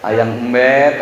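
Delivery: low, cooing newlywed wife; a mild wheedling call to her husband; lightly voiced clingy bride; pampered newlywed. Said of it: "manja-manjaan pengantin baru".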